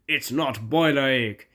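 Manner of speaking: slow, loud mild protest. Acted. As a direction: object slowly and firmly. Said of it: "protested Gordon".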